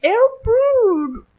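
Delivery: put-on silly French accent reading a beer label. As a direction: ham the French accent over the ingredients. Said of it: "when you're doing the French accent".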